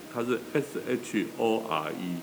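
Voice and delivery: S H O R E spelled letter by letter, slowly; spelling it out. Shown as a demonstration. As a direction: spell S H O R E out one letter at a time. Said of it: "我先讲一下这个字是怎么拼".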